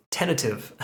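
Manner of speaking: "tentative" drawn out and emphasized; "tentative" singled out with slow, deliberate weight; stress on tentative. Real, not acted. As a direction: lean slowly on the word "tentative". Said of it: "I like to emphasize the word tentative".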